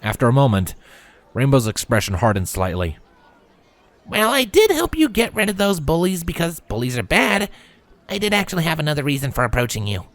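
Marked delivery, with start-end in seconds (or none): 4.1-10.1 simple and direct. A narrator's reading. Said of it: "she said simply".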